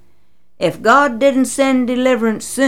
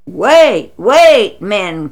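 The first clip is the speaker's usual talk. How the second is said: louder urgent call to halt; father calling out to an angry mob; crying out; 7 dB louder, much slower than usual. Acted. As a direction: shout them down to stop. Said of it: "cried Gideon's father".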